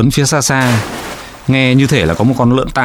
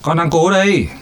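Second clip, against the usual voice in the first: hissing through teeth; 7 semitones higher than usual. A narrator's reading. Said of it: "rít qua kẽ răng".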